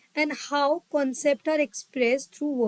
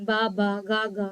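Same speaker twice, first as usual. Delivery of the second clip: put-on baby babbling demo; 4 semitones lower than usual. Shown as a demonstration. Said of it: "that is babbling".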